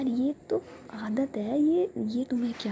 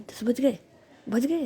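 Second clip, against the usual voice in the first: a sudden jolt of alarm, louder and higher; startled; 3 semitones higher, 6 dB louder than usual. Acted. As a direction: catch the shock mid-whisper. Jia shocked at the late hour. (चौंककर, ज़ोर से)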